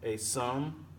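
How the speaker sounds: "a sum" split off, weight on "sum"; unstressed "a", stressed "sum"; iambic foot. Shown as a demonstration.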